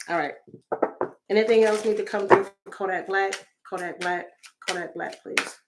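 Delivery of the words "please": usual speaking voice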